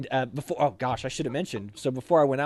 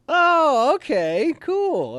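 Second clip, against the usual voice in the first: casual officer voice; 6 dB louder, much slower than usual. Retold or imitated. XO's casual reply quoted.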